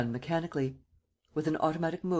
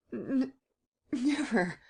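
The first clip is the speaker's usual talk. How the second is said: much higher, stammered refusal; stuttering; 9 semitones higher, much slower than usual. Acted. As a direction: stumble on the N, then force out never. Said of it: "he stuttered".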